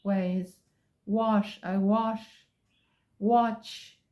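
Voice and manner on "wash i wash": "wash" with British short o. Shown as a demonstration. Teacher showing the British way, British wash. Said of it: "in British ways".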